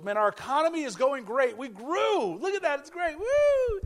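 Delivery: lightly voiced bragging leader, rising to a high whoop; a hint of a gloating politician who ends in a high whoop; mock boasting president. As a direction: puff up and brag. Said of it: "gets up and goes".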